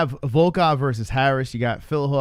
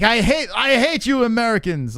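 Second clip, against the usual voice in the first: mock hater voice; 8 semitones higher, 4 dB louder than usual. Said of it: "they slide in and like".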